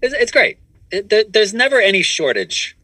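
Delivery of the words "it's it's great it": high mocking voice. Same mocking voice continues.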